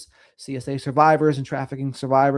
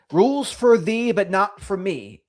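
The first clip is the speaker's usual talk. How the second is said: higher-pitched rhyming singsong; sing-songy; 5 semitones higher than usual. Real, not acted. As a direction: lilt the rhyme like a catchy saying. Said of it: "say things in the sing-songy way".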